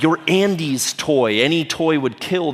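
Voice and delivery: slow, lightly acted pep talk; slightly lifted voice, rousing a friend; Woody. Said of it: "Woody gives him this riveting speech".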